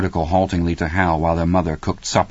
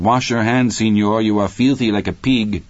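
higher, raised mother's call; 5 semitones higher, 3 dB louder than usual. A narrator's reading. Mother tells her young son to wash up, calling out. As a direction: call an order across the house. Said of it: "his mother called".

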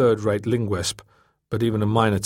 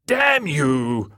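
higher-pitched annoyed outburst; squawked curse; 5 semitones higher, 4 dB louder than usual. Acted. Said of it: "Sunderland squawked again".

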